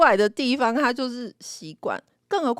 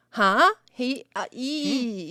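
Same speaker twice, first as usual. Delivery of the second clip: imitating Japanese; 3 semitones higher, much slower than usual. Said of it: "就学日本人".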